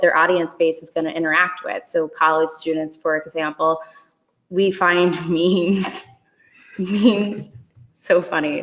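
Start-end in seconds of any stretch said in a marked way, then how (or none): 4.5-8.6 slow, halting words with real laughter; still laughing. Real, not acted. Presenter apologizing for laughing at memes, still laughing. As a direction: try to carry on through leftover giggles. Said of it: "Sorry, I'm still laughing".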